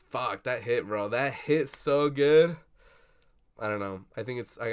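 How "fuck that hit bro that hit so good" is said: slow, loud and high; real awe, drawn out; savoring. Real, not acted. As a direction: stretch it out, still reeling. Reacting to the ending.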